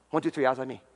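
playful classroom attention call; singsong teacher calling the class; kindergarten teacher voice. Acted.

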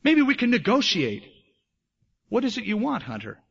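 lightly acted bear, pitched high, dropping on the last word; high, wheedling negotiator; soothing bear, coaxing. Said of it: "the bear spoke softly, soothing voice".

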